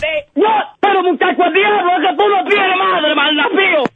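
grito furioso real; angry shout. Real, not acted. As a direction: explota de rabia, gritando. Estalla contra el bromista. (grito furioso)

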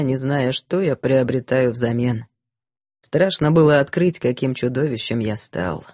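low, somber confessing voice; a guilty man baring his soul; repentant man. Acted. Гэвин продолжает исповедь. (кающийся мужчина, низкий голос)

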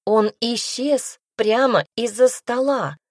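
high, loud, drawn-out alarm; exclaiming. A narrator's reading. Glenna insists the child simply vanished, exclaiming. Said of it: "воскликнула Гленна".

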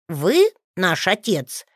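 put-on a suspicious boy checking; doubtful child's question; openly doubtful. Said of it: "с откровенным недоверием уточнил Лео".

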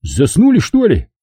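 Kelly to the movers, barking; barked. Acted. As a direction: snap at them, losing patience. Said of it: "рявкнул он".

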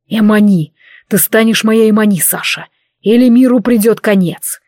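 loud, urgent dragon roar of a demand; commanding shout. Acted. Dragon loudly demands Sasha become his Emani, commanding shout. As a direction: bellow it like a claim he won't give up.

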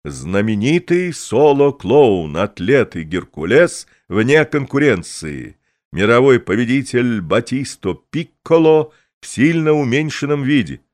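booming circus ringmaster. Acted. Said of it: "а сам Пикколо объясняет".

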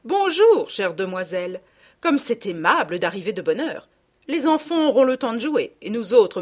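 a hint of a pompous lady of the house; gushing stout hostess. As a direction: fuss over the guests. Madame Ficquini gushes to guests.

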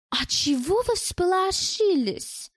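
high, drawn-out challenging question; haughty challenge. A narrator's reading. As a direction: toss it back slowly as a challenge. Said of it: "вскинула она голову".

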